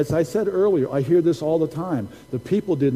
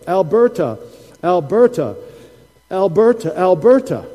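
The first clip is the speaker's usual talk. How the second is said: loud, raised, chanted imitation of a Ghanaian accent; prophet's Ghanaian accent; 4 semitones higher, 6 dB louder than usual. Preacher quotes a prophet from Ghana, imitated Ghanaian accent. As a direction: punch out each repeat in an imitated Ghanaian accent. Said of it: "saying in his beautiful accent".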